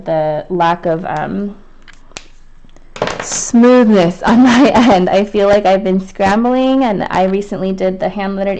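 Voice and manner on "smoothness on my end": slow, laughing through the words; real laugh breaking into the phrase; laughing apology. Real, not acted. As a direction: chuckle sheepishly while apologizing. Apologizing, laughs at own lack.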